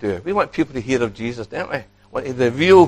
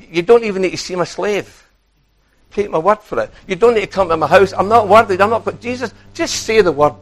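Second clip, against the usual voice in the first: pleading centurion; 5 semitones higher than usual. Acted. Preacher voicing the centurion's plea.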